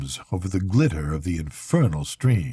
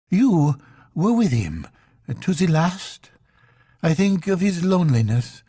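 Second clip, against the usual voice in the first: mourning; 6 semitones higher than usual. Acted. Intended confessing her lonely mourning, high breaking voice.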